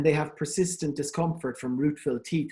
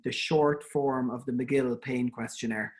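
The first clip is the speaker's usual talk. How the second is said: slow, measured clarification of a title; careful repeat; 3 semitones lower, slower than usual. Real, not acted. Lecturer repeats the pain scale's name on request, slow and careful. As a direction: give the name slowly so it can be noted. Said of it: "someone has just asked me to, to repeat the name".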